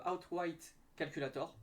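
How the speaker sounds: English tool name in a French accent. Real, not acted. Vlogger reading a betting tool's English menu name, French accent. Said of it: "désolé pour mon accent anglais".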